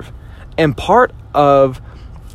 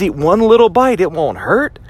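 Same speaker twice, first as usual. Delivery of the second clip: tempting inner voice; 5 semitones higher than usual. Retold or imitated. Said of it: "it says".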